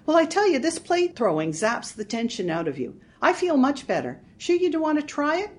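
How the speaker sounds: loud, eager urging; enthusiastic. Acted. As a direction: sell the fun of it hard. Marge urging plate throwing.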